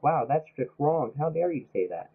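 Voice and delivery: slow, prissy mock outrage; mock offended crowd. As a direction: play the scandalised critics, slowly. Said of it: "And everyone's like".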